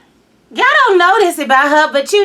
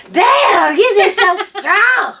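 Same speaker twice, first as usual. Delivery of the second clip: mock husband, laughing; 5 semitones higher, 3 dB louder, much slower than usual. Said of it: "He be like".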